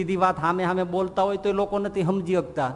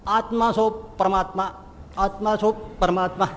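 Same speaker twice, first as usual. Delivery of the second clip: mocking a sannyasi. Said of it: "સાંભળે ને એટલે બસ".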